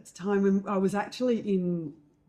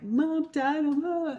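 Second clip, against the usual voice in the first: higher, louder mock-tearful wail; imitating crying friend; 10 semitones higher, 5 dB louder, slower than usual. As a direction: whimper it like a friend crying down the phone. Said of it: "and they're, like, crying and she's crying".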